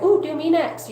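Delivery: high, bright ooh, keen to go next; eager mock excitement. Asking the witch gal to test his back too, high eager voice. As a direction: jump in like a kid wanting a turn. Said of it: "And I was like".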